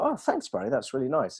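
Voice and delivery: pleased thanks. Acted. Acts out pleased reply to compliment.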